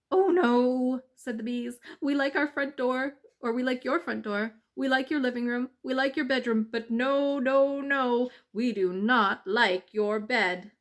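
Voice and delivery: loud protesting bee chorus; dismayed bees. Acted. Bees protesting the mud bed, loud.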